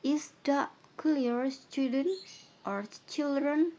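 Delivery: slow, high and loud; slow loud teacher question. Shown as a demonstration. Teacher checks pupils' understanding, slow and loud. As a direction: draw out the question to the class. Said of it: "Pak Guru ngomong ke studentnya".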